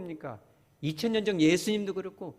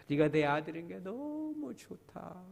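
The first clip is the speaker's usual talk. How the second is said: slow, tender blessing to a son; tender demo; 2 semitones higher, 3 dB quieter, slower than usual. Shown as a demonstration. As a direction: say it like you truly mean it. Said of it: "한번 해봐요". (아들에게 다정하게, 천천히)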